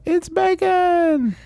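very high, slow squeal; excited high dog voice. Pretend. Dog ad punchline.

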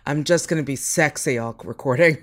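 ordinary delivery

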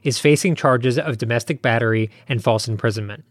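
measured, serious host statement; formal announcement. Real, not acted. Host warns listeners before the episode, formal and measured. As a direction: read out a sober notice to listeners.

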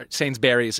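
"Sainsbury's" said as SAINZ-berries; wrong Sainsbury's pronunciation. Shown as a demonstration. Host points out his slip on "Sainsbury's", saying SAINZ-berries. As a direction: give "Sainsbury's" its full "berries" ending. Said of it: "Sainsbury's is wrong".

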